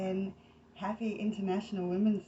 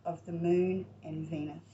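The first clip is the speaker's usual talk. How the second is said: measured read-aloud of a myth; story narration; 4 dB louder than usual. Acted. Host reading a goddess myth from a book to listeners, story narration. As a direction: read it out in phrases, with pauses between them.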